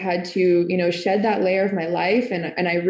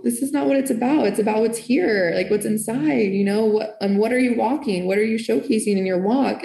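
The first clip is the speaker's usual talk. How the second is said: passionate retort; 3 semitones higher than usual. Retold or imitated. To judgmental churchgoers, a fired-up retort. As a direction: drive it home like a rebuke.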